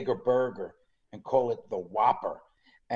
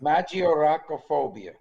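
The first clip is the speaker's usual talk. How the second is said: Italian accent; 2 semitones higher than usual. Shown as a demonstration. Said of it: "Notice I put the Italian accent in there".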